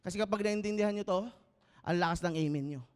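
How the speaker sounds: ordinary talk, nothing marked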